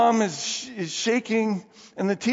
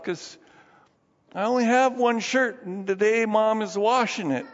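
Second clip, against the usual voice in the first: little Jimmy; 4 semitones higher than usual. Retold or imitated. Jimmy explains his poverty.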